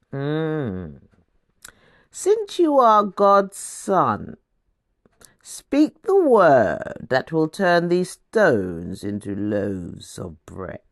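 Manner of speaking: slow, coaxing tempter's voice; sly devil. Acted. The devil tempting hungry Jesus, slow sly coaxing. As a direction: drawl it out like a sly devil tempting a starving man.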